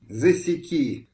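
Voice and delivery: slow, grinding through clenched teeth; a seething, teeth-clenched threat; through gritted teeth. A narrator's reading. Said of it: "скрипел зубами".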